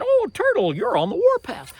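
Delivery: high, loud excited greeting; bear greeting. Acted. Bear calls down to Turtle, loud high greeting. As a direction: call out brightly from the tree.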